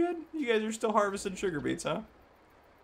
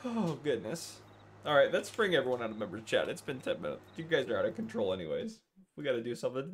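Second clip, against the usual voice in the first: ordinary delivery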